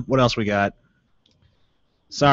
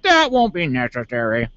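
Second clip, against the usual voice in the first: imitated cop. White cop calming his partner, mock officious. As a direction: play the restraining officer. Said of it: "the white cop's like".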